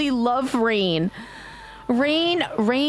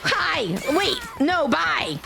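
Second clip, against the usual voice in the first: startled shout; 6 semitones higher, much slower than usual. Real, not acted. Startled by wrong player in game.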